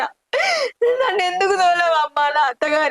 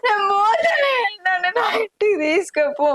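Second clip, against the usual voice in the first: crying shout; 4 semitones higher than usual. Acted. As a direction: break into a sobbing cry. Daughter pleading, crying to mother. (ఏడుస్తూ అరుపు)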